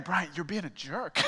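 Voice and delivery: high, pointed friend voice through laughs; friend's blunt hidden meaning, lightly played; imitating blunt friend. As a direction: voice the friend calling him out, laughing. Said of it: "his way of saying".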